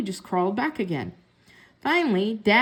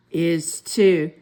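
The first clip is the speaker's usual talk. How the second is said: louder stubborn brother retort; bickering brother; 5 semitones lower, 4 dB louder than usual. A narrator's reading. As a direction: dig in like a stubborn boy. Siblings bickering over pencil.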